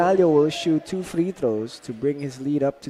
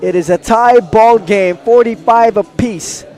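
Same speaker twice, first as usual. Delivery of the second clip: emphatic halftime announcement; 3 semitones higher, 5 dB louder than usual. Real, not acted. Announces tied score at halftime.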